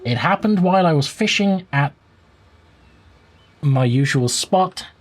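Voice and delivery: muffled, leaning past the mic; reading off-mic, words muffled. Real, not acted. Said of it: "lean past the microphone ... I'm gonna be muffled".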